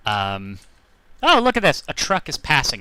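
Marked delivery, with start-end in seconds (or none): 1.2-2.8 surprised. Real, not acted. Truck passes, sudden surprise.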